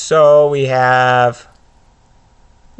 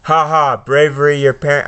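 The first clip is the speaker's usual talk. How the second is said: a touch louder, menacing villain read; Voldemort; 2 semitones higher, 3 dB louder, faster than usual. Acted. Voldemort tempting Harry to join him, louder menace. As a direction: tempt and threaten the boy.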